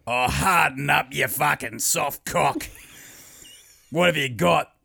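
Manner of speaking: slow, drawn-out taunt, imitated; mocking workmate. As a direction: razz a sick mate, stretching each word. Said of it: "And be like".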